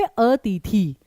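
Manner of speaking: "अतिथि" misread with long ee vowels; long-vowel mispronunciation. Shown as a demonstration. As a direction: stretch the i sounds in "अतिथि" to ee. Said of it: "अतिथि नहीं होता". ("अतिथि" को दीर्घ ई से, "अतीथी")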